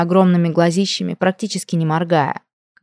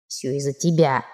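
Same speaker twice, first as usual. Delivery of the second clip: low, soft, wounded reproach; dejected quiet grumble; sorrowful; 4 semitones lower, 5 dB quieter than usual. A narrator's reading. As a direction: blame mournfully, voice sunk. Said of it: "горестно сообщили мне".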